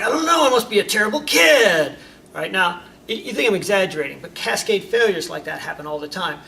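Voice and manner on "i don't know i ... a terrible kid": put-on high, loud despairing kid; distressed kid. Loud defeated cry. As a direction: kid telling mom after police bring him home. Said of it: "you're like".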